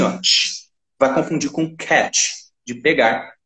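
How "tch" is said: tch breathed out with no voice; wrong T sound. Shown as a demonstration. Teacher showing the T that sounds like tch. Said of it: "se você falar o T assim".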